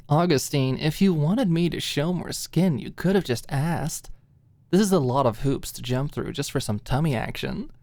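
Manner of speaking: deflect with mock flirtation; sarcastic musing. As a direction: Alicia teasing her friend sarcastically to hide her feelings. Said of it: "she mused sarcastically".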